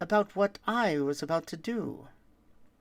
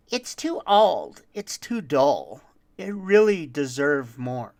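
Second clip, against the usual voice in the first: greedy grumbling voice; 6 dB louder than usual. Acted. Greedy voices overheard upstairs.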